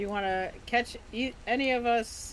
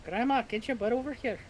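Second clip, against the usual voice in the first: calling out; 5 semitones higher, 4 dB louder than usual. Real, not acted. Calling Grandma over.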